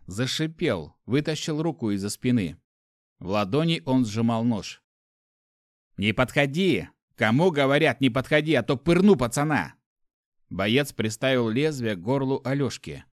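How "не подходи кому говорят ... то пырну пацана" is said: loud knife-point threat; threatening. Acted. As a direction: warn them off, voice raised.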